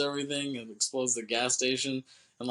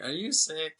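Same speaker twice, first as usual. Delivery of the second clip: lightly voiced little girl, higher pitch; a hint of a child asking, pitched up; 5 semitones higher than usual. Little girl asks a sick man, lightly imitated child. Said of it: "the little girl is with Garland".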